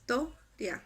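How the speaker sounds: "toria" in two detached beats, to, ria; separated syllables. Shown as a demonstration. Teacher counting out remaining syllables, "toria" as to, ria. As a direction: split "toria" after "to". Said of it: "por separado".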